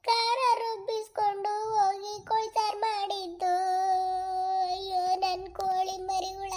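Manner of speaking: slow mock-tearful wail; crying lament. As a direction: grieve over the hens, slowly. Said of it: "ಅಳ್ಬೇಡ". (ನಿಧಾನವಾಗಿ ಅಳುತ್ತಾ ಗೋಳು)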